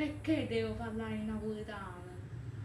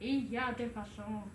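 mock French; 4 dB quieter than usual. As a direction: fake French poem recital. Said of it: "Inventa una poesia".

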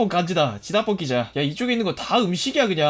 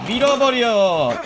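battle cry; 3 semitones higher, 5 dB louder, much slower than usual. Pretend.

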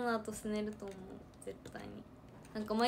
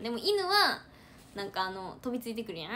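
ordinary talk, nothing marked

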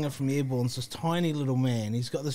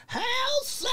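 shouted Hail Satan. Retold or imitated. Band guy shouts Hail Satan at the rock singer, mock yell. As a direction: bellow it like a metal frontman.

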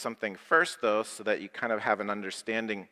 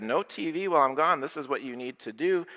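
firm parent; 3 semitones higher, faster than usual. Retold or imitated. Parent restating the TV rule to the boys, firmer. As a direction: lay down the rule again like a stern parent. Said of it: "I said".

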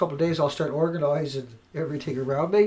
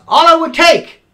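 outburst; 9 semitones higher, 12 dB louder, slower than usual. Real, not acted. Ranting about newscasters, outburst.

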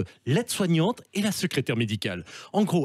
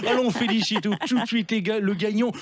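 Stéphane Bern impression; 3 semitones higher than usual. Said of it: "avec Stéphane Bern".

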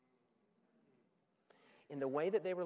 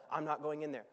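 sulky refusal; 6 semitones lower than usual. Acted. Older brother refusing to join the party, sulking. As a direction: sulk it like a pouty sibling.

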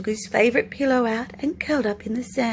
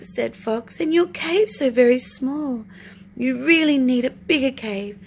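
eager fox; 2 semitones higher than usual. Acted.

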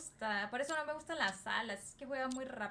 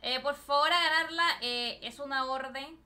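loud, bossy order; loud command; 7 dB louder than usual. Real, not acted. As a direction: order the team to win. Ordering the team to win.

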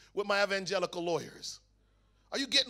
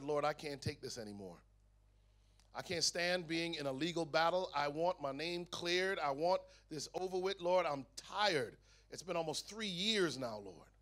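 weary prayer; 4 semitones lower, 6 dB quieter than usual. Retold or imitated. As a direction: pray it out quietly, exhausted. Agonizing prayer on his knees.

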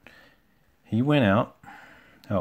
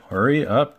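louder, higher impatient order; cross; 5 semitones higher, 7 dB louder than usual. A narrator's reading. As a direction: snap at someone to hurry. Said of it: "Gordon said crossly".

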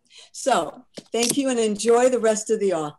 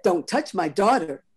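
cold repeat; 4 dB louder than usual. Acted. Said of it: "May's voice was cold".

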